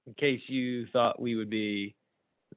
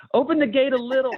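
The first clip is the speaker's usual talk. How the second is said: hesitant squire call; 11 semitones higher, 5 dB louder than usual. Acted. Squire voiced in comic strip.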